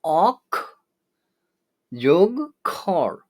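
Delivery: অক and খর said slowly as two separate syllables; syllables split apart. Shown as a demonstration. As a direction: break অক্ষর into অক and খর. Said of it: "অক্ষর শব্দটিতে মোট দুটি সিলেবল". (সিলেবল আলাদা করে ধীরে উচ্চারণ)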